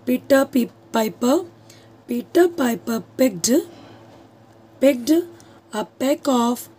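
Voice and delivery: "पीटर पाइपर picked" spaced out slowly; slow tongue twister. Shown as a demonstration. Teacher showing students a tongue twister, slowly. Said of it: "मैं आपको एक tongue twister बताती हूँ".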